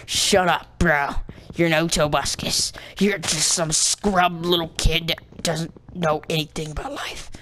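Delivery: lightly mocked heckler; a hint of a put-on hater voice; imitated annoyed viewer. Player quoting viewers he annoys, mildly mocking put-down. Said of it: "pissing off people that just like".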